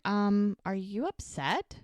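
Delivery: mildly hesitant acted question; tentative. Podcaster voices woman approaching man chopping wood, tentatively. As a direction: ease into the question carefully.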